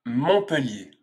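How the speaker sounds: MONTPELLIER said alone with falling pitch; MONTPELLIER as "mon-pe-lié", silent t; pronunciation demo. Shown as a demonstration. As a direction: model MONTPELLIER for learners. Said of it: "tu as appris à bien prononcer".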